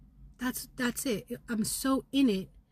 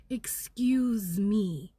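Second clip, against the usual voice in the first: sassy drawn-out excuse me; much slower than usual. Shown as a demonstration. Telling the viewers her guidance, slow and defiant. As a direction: draw out "Excuse me" with attitude. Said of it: "has been the guidance".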